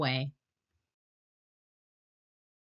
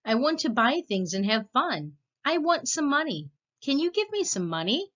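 put-on high, pleading young boy, quicker at the end; demanding boy; 6 semitones higher than usual. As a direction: beg like a boy who wants things. Boy asks for money.

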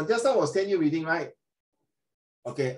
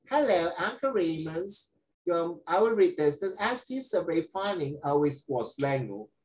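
imitating a young pupil; 3 semitones higher than usual. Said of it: "the way they speak very well".

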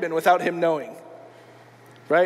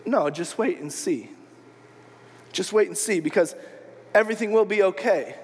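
gentle reassurance. Acted. God answers frightened Jacob, gently reassuring.

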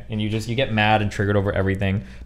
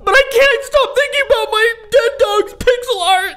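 mock streamer. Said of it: "imagine you're like".

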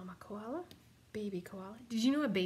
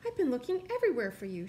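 a touch of a rushed, relieved cry; 2 semitones higher, 3 dB louder, faster than usual. Acted. Mother finding her lost son Wombat, mildly relieved cry. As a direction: hurry the words out in mild relief. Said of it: "she cried".

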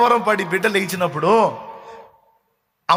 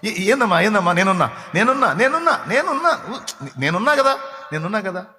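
put-on higher, soothing parent comforting a scared child; imitating a parent soothing; 3 semitones higher than usual. Parent calming a scared daughter, tender and higher. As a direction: hush a frightened little girl, higher pitched. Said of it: "తల్లి కానీ తండ్రి ... అన్న మాట".

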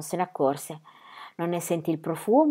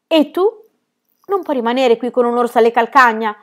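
urgent protest; 3 semitones higher, 6 dB louder than usual. Acted. Birk protesting to Ronia near the bear, loud worry. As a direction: push back in alarm.

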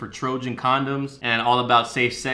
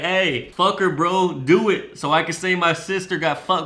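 hyped-up brother; 5 semitones higher, 4 dB louder than usual. Retold or imitated. Acting out the brother's reaction.

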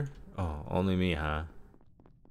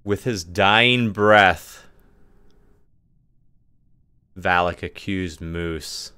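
slow, louder grand narrator voice; dramatic narration; 4 dB louder, much slower than usual. Pretend. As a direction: proclaim it like an epic narrator. Mock narration, tried twice.

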